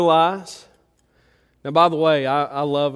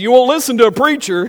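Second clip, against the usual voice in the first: żartobliwe przytyk; 8 semitones higher, 7 dB louder than usual. Retold or imitated. Teasing the helper.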